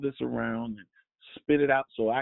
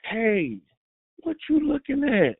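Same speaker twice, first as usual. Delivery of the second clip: confrontational demo; 8 semitones higher than usual. Shown as a demonstration. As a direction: bark it like picking a fight. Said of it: "depending on the tone".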